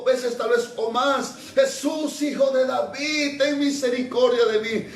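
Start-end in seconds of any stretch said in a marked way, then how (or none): 1.5-4.9 calling Jesus, name raised; repeated plea; crying out. Acted. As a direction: call for mercy again and again. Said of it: "Comenzó a dar voces".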